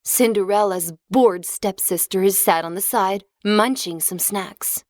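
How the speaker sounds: ordinary delivery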